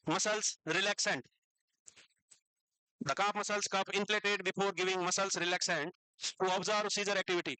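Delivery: very slow, word by word; slow dictation. Shown as a demonstration. Teacher dictating notes to students, very slow. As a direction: dictate so they can write along. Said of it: "अभी मैं रुक रुक के बोलूंगा".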